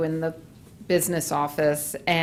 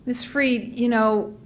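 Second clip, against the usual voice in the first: put-on higher-pitched retelling of a kid's question; quoted student; 6 semitones higher than usual. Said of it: "the kid said to me".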